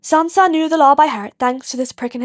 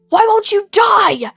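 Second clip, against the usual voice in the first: slow, raised villain's roar; 8 semitones higher, 5 dB louder, slower than usual. Acted. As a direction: roar it at the fleeing boy. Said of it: "the villain roared".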